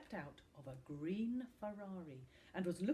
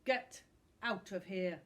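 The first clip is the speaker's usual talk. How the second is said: angry; 6 dB louder than usual. Acted. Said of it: "Tom said angrily".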